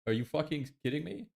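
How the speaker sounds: high, incredulous outburst; can't believe what he's reading; exasperated disbelief. Real, not acted. Paywall demands more money.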